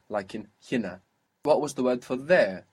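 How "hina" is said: hina stressed on HI, short ending; stress on penultimate syllable. Shown as a demonstration. Teacher giving the default example, stress on HI in hina. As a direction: put the weight on the first syllable of hina. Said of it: "the second last syllable".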